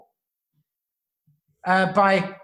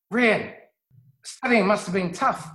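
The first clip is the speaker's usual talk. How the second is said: warm parent; 3 semitones higher than usual. Shown as a demonstration. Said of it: "If, on the other hand, you say".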